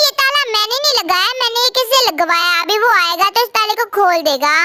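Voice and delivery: low, casual male voice; a hint of a calm man; lightly voiced professor.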